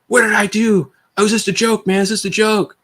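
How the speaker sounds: high, pleading protest in a put-on voice; whiny victim. Man caught in a fight pleads it was only a joke, high and whiny. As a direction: mimic a pleading guy who swears it was a joke.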